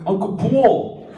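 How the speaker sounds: imitating nieces and nephews cheering his arrival; excited kids calling. Sister's kids greeting their uncle at the door, high excited calling. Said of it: "all her kids are like".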